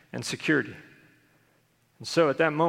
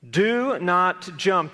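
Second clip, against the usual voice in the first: very slow, a bit louder stern warning; amygdala warning; 3 semitones higher, 3 dB louder, much slower than usual. Retold or imitated. Preacher voicing his panicked brain, slow warning. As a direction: drag out each word like a frightened inner voice. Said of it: "the amygdala says".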